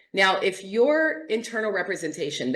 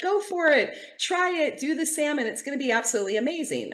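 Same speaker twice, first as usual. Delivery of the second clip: much higher, pushy cheerleading; eager encouragement; 8 semitones higher, faster than usual. Retold or imitated. Friend urging you to try the salmon, high and excited. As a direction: urge them on like a thrilled friend. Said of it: "And I'm like".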